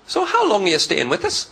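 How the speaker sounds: lightly acted friendly welcome; friendly passport officer. Dublin passport checker to a first-time visitor, mildly friendly. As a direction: ask like a welcoming host. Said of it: "the guy that checks your passport's friendly".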